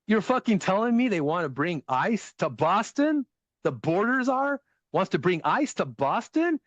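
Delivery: Boston guy rant. Retold or imitated. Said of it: "He goes".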